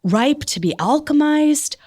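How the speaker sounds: high, slow and hushed, the penitent who finally gets it; humbled realisation. Retold or imitated. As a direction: start in a whisper of awe, then lift high and humble. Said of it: "the most humbled, like, dog with its tail".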